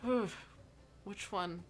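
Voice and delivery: hesitant, searching for words, fading off; flustered Mira. Acted. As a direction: stumble through an awkward introduction.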